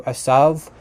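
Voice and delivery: Esav said with a plain opening vowel, no throat sound; modern Hebrew pronunciation. Shown as a demonstration. Explaining Hebrew names to viewers, Esav in modern pronunciation. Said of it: "which in modern Hebrew".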